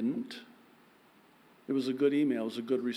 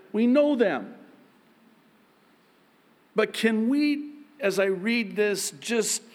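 raised, slow emphatic preaching; 6 semitones higher, 4 dB louder, slower than usual. Acted. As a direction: preach it out to the congregation, building. Pastor preaching to congregation.

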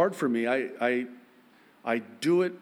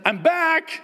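much higher, louder cheerful announcement; cheery greeting; 9 dB louder than usual. Retold or imitated. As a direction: sing it out like an old friend returning.

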